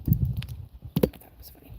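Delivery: slow unvoiced whisper; whispered aside. Real, not acted. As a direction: murmur it to yourself.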